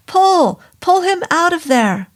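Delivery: loud, high commanding yell; urgent yell. Acted. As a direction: bark the order in alarm.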